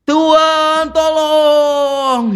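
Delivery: high pleading cry to God; begging for help. Retold or imitated. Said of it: "minta tolong kepada Tuhan".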